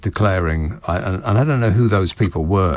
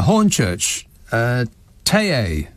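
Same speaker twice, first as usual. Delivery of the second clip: ordinary delivery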